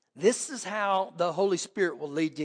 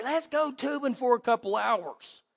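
lightly voiced eager suggestion, pitched up; retold eager proposal, higher; eager group suggestion; 5 semitones higher than usual. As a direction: pitch it up like a keen friend rallying everyone.

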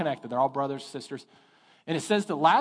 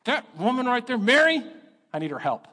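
whiny complaint; 5 semitones higher, 4 dB louder than usual. Retold or imitated. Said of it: "interrupts the whole service and goes".

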